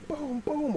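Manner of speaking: small mock thuds; imitated banging. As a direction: voice the bangs on a roof lightly. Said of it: "make loud noises".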